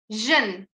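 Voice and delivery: Jin with a long î vowel; Jin, the right way; correct pronunciation. Shown as a demonstration. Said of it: "Bakın jin demiyorum. Jin diyorum".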